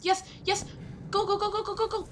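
high excited yelling; excited shouting. Real, not acted. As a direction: yell it, urging yourself on. Escaping in horror game.

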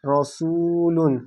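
রসুলুন drawn out, syllables held; slow blended word. Shown as a demonstration. Teacher chants the joined word for pupils, slowly. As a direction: stretch রসুলুন evenly. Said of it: "লাম দো পেশ লুন".

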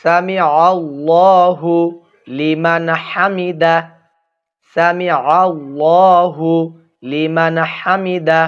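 সামি আল্লাহু লিমান হামিদা slow, আল্লাহু stretched, no break before লিমান; correct recitation. Shown as a demonstration. Teacher models the correct prayer phrase for viewers, slow recitation. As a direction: intone it slowly with a held আল্লাহু. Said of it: "খেয়াল করুন".

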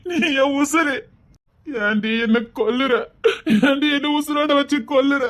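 choked, pleading lament to an absent love; anguished lover's plea. Acted. Man alone pleading to Thenmozhi, tearful and desperate. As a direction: beg her to understand, voice near tears.

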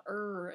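"er" with a drawn-out American R; pirate-like American R. Shown as a demonstration. American showing her accent in German, "er" with a long hard R. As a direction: hold the R in "er" like a pirate. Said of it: "It's like a pirate or something".

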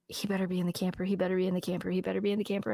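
quiet, tense repeating under her breath; anxious muttering. Retold or imitated. Woman hurrying back to the camper, quietly anxious repeating. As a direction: chant it softly like a worried prayer.

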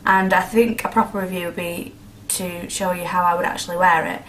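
talking while chewing gum; words round a piece of gum. Real, not acted. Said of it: "Sorry, I've got chewing gum in".

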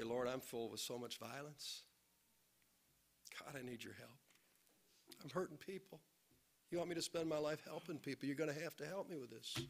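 soft, hushed plea to God; humble confession. Retold or imitated. Pastor retelling his own plea to God, hushed and humble. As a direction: confess quietly, humbled and broken. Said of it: "honest and humble like I was and say".

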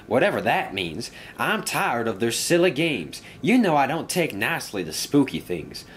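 lightly voiced, irritated engine character; a hint of a fed-up engine; grumpy engine. Engine complaining to a friend about silly games, lightly voiced grumbling.

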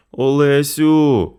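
sick mother calling her eldest. A narrator's reading. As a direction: call your daughter weakly from the sickbed. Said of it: "покликала хвора".

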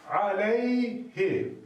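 "Aleyhi" said slowly, syllable by syllable; slow recitation. Shown as a demonstration. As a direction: pronounce "Aleyhi" carefully, with a short hi. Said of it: "Peki arkadaşlar". (yavaş ve tane tane "Aleyhi")

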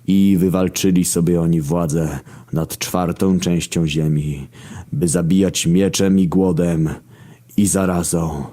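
mock scripture recital. Narrator parodying the horsemen of Revelation, solemn recital.

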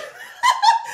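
bursting into a high laugh. Real, not acted. Vlogger laughing at her rant, high burst. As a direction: cackle at your own rant.

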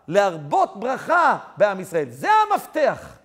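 loud, high, emphatic sermon; forceful preaching. Acted. Preacher draws the lesson from the story, forceful preaching. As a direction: build to the moral at full voice.

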